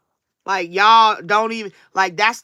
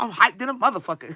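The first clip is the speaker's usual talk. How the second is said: fast, laughing through the words; fast laughing hype; 5 dB quieter, faster than usual. Real, not acted. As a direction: giggle it out quickly. Laughing excitement.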